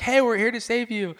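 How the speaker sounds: imitated helicopter crew's call; rescuer calling out. Helicopter crew calls to swimmer.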